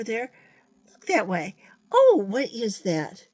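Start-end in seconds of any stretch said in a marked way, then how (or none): 1.9-3.3 puppet's surprise. Acted. Voicing the puppet spotting something.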